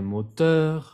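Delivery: moteur with the final R sounded; R heard. Shown as a demonstration. Teacher showing the R is heard in moteur. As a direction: say moteur ending on a French R. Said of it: "Ahí sí se escucha la R".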